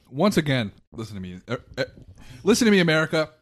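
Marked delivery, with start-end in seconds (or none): 2.4-3.3 rousing speech. Pretend. Rallying speech to America.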